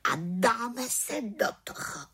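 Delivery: high, contented witch voice; satisfied call. Acted. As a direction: launch into it with satisfaction. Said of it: "spokojeně zvolala malá čarodějnice".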